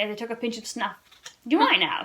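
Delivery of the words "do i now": gay retort. Acted. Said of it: "she retorted gaily".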